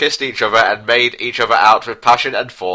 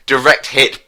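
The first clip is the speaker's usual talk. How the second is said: mock triumphant shout; 4 semitones higher than usual. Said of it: "Prince Harry shouted in his terrible triumph".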